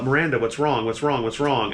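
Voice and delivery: distant, muffled calling; as if heard through water, calling the name. Acted. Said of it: "this kind of muffled voice is saying".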